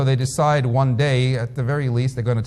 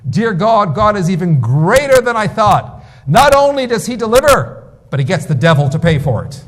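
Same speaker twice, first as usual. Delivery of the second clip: much higher, louder gleeful cry; delighted shout of thanks to God; triumphant praise; 6 semitones higher, 6 dB louder than usual. Retold or imitated. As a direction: exult up to heaven, punchline rising. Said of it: "he looks up to the heavens and he says".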